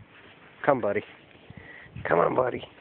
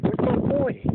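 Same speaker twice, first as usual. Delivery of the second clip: squeaky pet voice; slower than usual. Real, not acted. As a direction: squeal it to the puppy. Baby talk to the dog.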